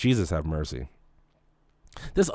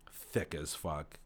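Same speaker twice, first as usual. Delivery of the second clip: much softer, slow; exasperated mutter; 6 semitones lower, 15 dB quieter, much slower than usual. Real, not acted. Telling women off, softly and slow. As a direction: let it drop out quietly.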